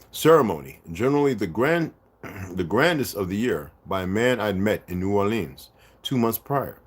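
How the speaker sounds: measured, emphatic book narration; reading aloud. Acted. Reading a book passage to viewers, measured narration. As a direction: read it out clearly with deliberate phrasing.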